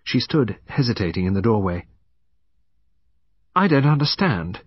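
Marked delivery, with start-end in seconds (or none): 3.5-4.6 higher, indignant protest; defiant young woman's challenge; angry, defiant. A narrator's reading. Young woman challenges the detective at the door, angrily. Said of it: "She spoke angrily, defiantly".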